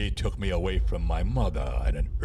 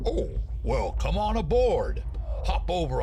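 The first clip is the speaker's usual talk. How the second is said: excited; 11 semitones higher than usual. Acted. Delighted invite to new friend.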